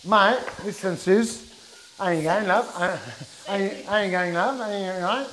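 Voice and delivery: jokey put-on Aussie twang; playfully faked Australian accent; mock Aussie accent. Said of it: "developing an Aussie accent, mate".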